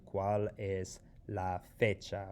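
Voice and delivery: slow, careful question; slow model question. Shown as a demonstration. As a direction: say it slowly so they can hear it. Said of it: "respond to the question".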